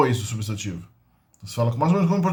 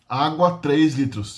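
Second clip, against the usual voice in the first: slow gloss; much slower than usual. Shown as a demonstration. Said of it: "Significa três litros de água".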